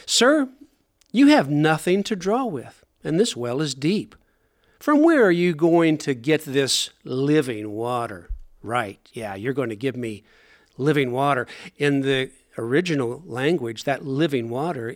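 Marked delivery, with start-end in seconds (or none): 0.1-8.3 mildly sarcastic doubt, leaning on the question; somewhat sarcastic. Acted. Woman at the well doubts Jesus, somewhat sarcastic. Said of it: "somewhat of a sarcastic way". 8.6-11.4 sarcastic disbelief. Acted. Woman privately scoffing at Jesus's offer, sarcastic. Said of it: "somewhat of a sarcastic way".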